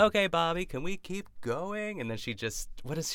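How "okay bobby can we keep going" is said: high-pitched, playful hostess mimicry; imitated rambling hostess. Ina asks the boat captain, high mock hostess voice. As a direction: mimic a hostess chirping at her captain, higher. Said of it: "She's just rambling away".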